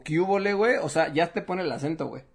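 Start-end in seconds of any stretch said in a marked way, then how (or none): 0.0-0.8 mock Mexican slang. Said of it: "es como".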